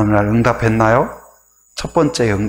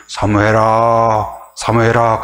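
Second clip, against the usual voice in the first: slow, drawn-out calling of a name; God calling; 3 semitones lower, slower than usual. Retold or imitated. God calling sleeping Samuel, slow and drawn out. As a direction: call out slowly into the night.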